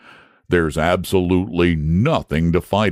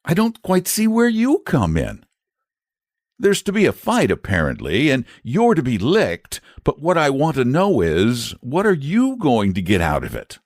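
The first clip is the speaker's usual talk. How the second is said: put-on high boyish voice, indignant; a protective lad demanding fairness; boy standing up for his friend the dragon; jealous boy; 11 semitones higher than usual. A narrator's reading. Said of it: "a little jealous on behalf".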